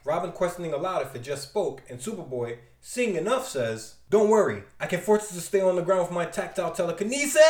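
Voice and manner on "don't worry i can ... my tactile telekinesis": loud cocky boast; confident shout. Acted. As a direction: announce it with bravado.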